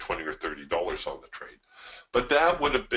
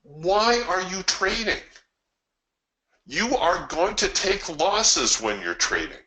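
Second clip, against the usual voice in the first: exasperated inner thought; 10 semitones higher than usual. Retold or imitated. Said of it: "the whole time I'm thinking".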